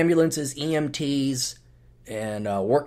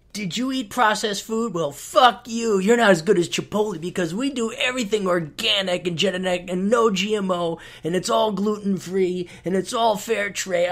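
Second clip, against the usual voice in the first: mock smug chain; 4 semitones higher than usual. Mocking smug organic chain.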